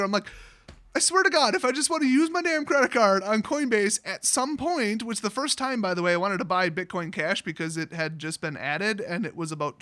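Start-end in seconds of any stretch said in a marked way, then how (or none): 0.9-5.0 exasperated outburst. Retold or imitated. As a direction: blow up at the phone agent in frustration. Retelling exasperation at bank agent.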